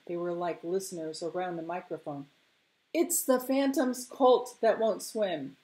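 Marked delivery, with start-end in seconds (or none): 2.9-5.6 higher, slow, strained call; hoarse calling out. Acted. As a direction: call out as if the voice could crack. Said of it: "in a voice so hoarse it cracked".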